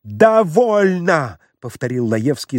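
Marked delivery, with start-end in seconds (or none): 0.0-1.4 выше и громче, медленно, с одышкой; выкрикнуть на выдохе; задыхаясь, кричит. Acted. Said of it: "задыхаясь". (Лаевский задыхаясь кричит: хватит)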